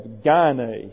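"gyne" with a hard G, like guy. Shown as a demonstration. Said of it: "You have that hard G".

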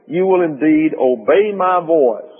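"obey" stressed, drawn out in a slow reading. Shown as a demonstration. Preacher reads God's condition to Israel, stressing "obey". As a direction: lean on "obey" as the key word. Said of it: "I'm stressing the word obey".

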